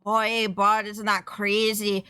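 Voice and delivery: exaggerated Canadian accent slipping out; put-on Canadian accent. Shown as a demonstration. Streamer showing how the accent suddenly turns, broad Canadian accent. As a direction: lay the Canadian vowels on thick. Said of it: "like, a normal Canadian accent".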